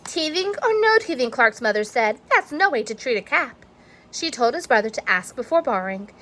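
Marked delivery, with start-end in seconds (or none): 0.0-3.7 mom scolding. Acted. Mother scolds.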